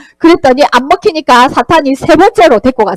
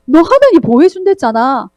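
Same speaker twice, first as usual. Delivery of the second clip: cunning Satan; 4 semitones higher than usual. Acted. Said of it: "하나님의 말씀을 교묘하게".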